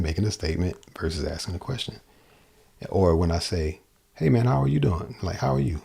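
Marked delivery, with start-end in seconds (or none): 4.1-5.2 HEY MAN lifted high, falling on DOING; animated greeting inflection. Shown as a demonstration. Teacher showing how vocal inflection differs, high animated greeting. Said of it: "my inflection, my accents". 5.4-5.8 HOW ARE pitched high, YOU dropping away; accented inflection. Shown as a demonstration. Teacher showing vocal accents to a player, high falling inflection. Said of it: "my inflection, my accents".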